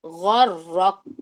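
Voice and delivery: غرق drawn out very slowly with breathy release; hams demo. Shown as a demonstration. Teacher shows students hams on غرق, slow and breathy. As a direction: stretch غرق and let the air out at the end. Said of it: "سب سے پہلے ہمس آپ notice کریں".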